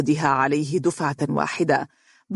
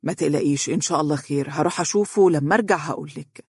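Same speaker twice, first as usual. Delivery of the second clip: reassuring; faster than usual. Acted. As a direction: gently ease her worry. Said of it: "وهو يربت على ذراعها". (بهدوء وطمأنة)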